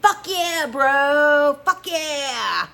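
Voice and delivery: very high, loud triumphant whoop; cheering. A narrator's reading. Bandmate cheers the record deal, loud whoop. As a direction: celebrate like you won.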